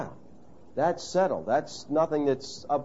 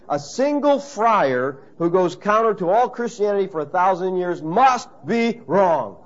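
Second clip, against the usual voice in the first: lightly acted imperial pronouncement, slowing emphatically at the end; declaiming emperor; 4 semitones higher, 5 dB louder, slower than usual. Emperor Charles the Fifth to Luther, lightly acted stern declaration. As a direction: pronounce judgment with raised pitch.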